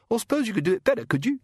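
high, sneering little imp; cheeky high goblin snarl; giggly sneering imp. A narrator's reading. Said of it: "said the imp".

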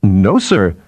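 mildly miserable denial; a touch of misery. Acted. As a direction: answer meekly, like a scolded subordinate. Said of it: "said Binet miserably".

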